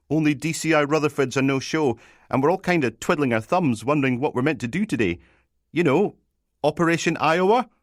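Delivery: high, chattering junior officer; anxious constable reporting. Acted. Constable tells sergeant the boss is missing, high anxious chatter. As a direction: report in a high, eager-to-explain voice.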